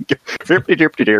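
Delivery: Swedish chef mock. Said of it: "just a Swedish chef".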